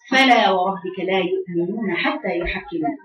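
slow measured recitation of the verse; Quran recitation. Shown as a demonstration. Teacher reciting the verse slowly to students. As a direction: recite it slowly, tajweed style.

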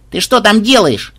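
high, excited shouted question; joyful yell. A narrator's reading. Granddaughter calling to Xen up there, happily shouting. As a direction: call up to a friend, delighted. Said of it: "радостно завопила внучка".

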